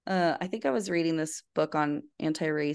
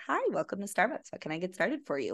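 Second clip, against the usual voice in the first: quick, bright barista greeting; fast soft customer service sing-song; 6 dB quieter, faster than usual. Retold or imitated. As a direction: chirp it like a barista at the till. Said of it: "especially to be like".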